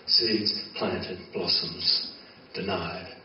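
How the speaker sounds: slow, hushed spoken-word poem; poem recital. Acted. Poet opening his reading with hushed, slow lines. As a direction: lay each image down softly and slowly.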